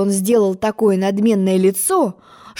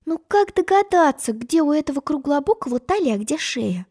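upset thought; 6 semitones higher, 4 dB quieter than usual. A narrator's reading. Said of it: "расстроенно подумала".

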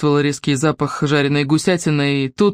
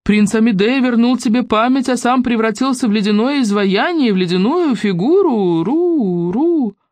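echoing voice; 6 semitones higher than usual. Acted. Echo tells the sad news.

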